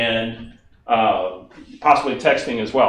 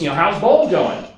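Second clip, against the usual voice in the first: Barbara's voice; 3 semitones higher, 4 dB louder than usual. Retold or imitated. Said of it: "I'm gonna talk like Barbara for a minute".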